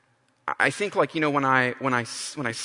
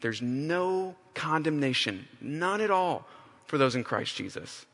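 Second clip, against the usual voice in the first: softer, slower "no condemnation", said gently; quiet answer; 3 dB quieter than usual. Shown as a demonstration. Paul answering himself, softly reassuring after his lament. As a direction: speak "none at all" as quiet reassurance. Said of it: "His answer to himself is".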